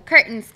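"curtains" as ker-ns, the U skipped; "curtains" with cur- like C plus R; swallowed U. Shown as a demonstration. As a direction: say "curtains" eating the first vowel. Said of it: "me como la U".

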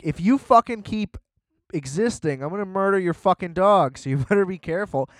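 high, loud threatening growl; mean old lady. Retold or imitated. Mean old lady threatens the man at the bank, menacing. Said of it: "And she's like".

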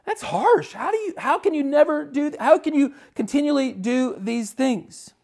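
high-pitched, incredulous objection; mock protest. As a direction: act out a congregant's pleading complaint. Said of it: "you're like".

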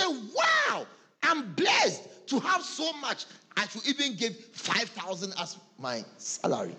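a hammed-up happy believer; overjoyed mock cry of thanks; 1 mock grateful exclamation. Pastor mimics grateful believer.

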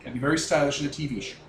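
ordinary talk

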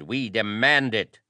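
nobles' high, forceful outcry; shouted demand. A narrator's reading. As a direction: insist at a shout. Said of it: "they shouted".

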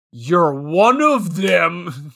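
slow, drawn-out mock accusation; low and slow, as if exposing a plot; conspiracy theorist. Husband accusing his wife, mock conspiracy theorist. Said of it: "big conspiracy theorist energy where he goes".

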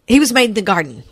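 talking through chocolate; eating chocolate. Real, not acted. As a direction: mouth full of chocolate. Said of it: "I got chocolate in my mouth".

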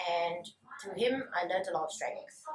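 words between sips of coffee; while drinking coffee. Real, not acted. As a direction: talk with coffee in the throat. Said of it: "Sorry, I'm drinking coffee".

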